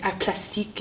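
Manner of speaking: French-accented name of a degree. Shown as a demonstration. Showing off how cool the studies sound, French accent. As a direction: put on French pronunciation for the art term. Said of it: "especially when I say it with a French accent".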